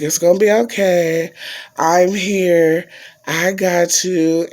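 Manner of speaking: lightly voiced reassuring mother; soothing mom. Mom calming her crying daughter by phone, mildly soothing. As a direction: imitate a mother gently calming her child. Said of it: "my mom was calming me down".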